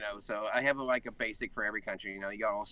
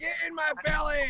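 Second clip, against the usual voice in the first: Shrek-movie voice; 14 semitones higher, 4 dB louder than usual. Pretend. Shrek quotes.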